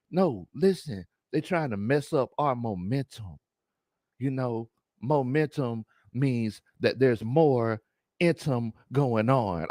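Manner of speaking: lightly voiced self-serious sage; a hint of solemn teacher, words drawn out; Big Low Conspiracy. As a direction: explain it slowly, as deep wisdom. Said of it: "do my best Big Low Conspiracy im".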